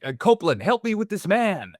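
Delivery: pitched high, calling for help, half-acted; mock yell to a fellow prisoner for a hand; retold scream for help. Prisoner calling to Copeland for help, mock yell pitched high. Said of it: "he's screaming at him to help him".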